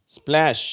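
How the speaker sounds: "ஸ்பிளாஷ்" high and loud with blended spl; SPL word. Shown as a demonstration. Teacher giving an example, "ஸ்பிளாஷ்" with an spl onset. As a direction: model "ஸ்பிளாஷ்" starting on spl run together. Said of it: "ஸ்பில் அப்படின்ற உச்சரிப்பு".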